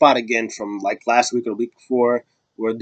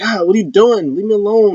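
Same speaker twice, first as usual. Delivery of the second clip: mock Liv whine; 10 semitones higher than usual. Liv voiced.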